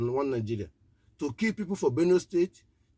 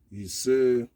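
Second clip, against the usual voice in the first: louder call to the crowd; 3 semitones lower, 5 dB louder than usual. Real, not acted. Radio preacher calling on listeners to respond, loud. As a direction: call it out for them to answer.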